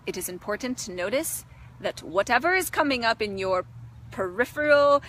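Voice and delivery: put-on Indian guru voice, measured delivery; playful Indian-accented spiritual teaching. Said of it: "It is like my Indian guru side".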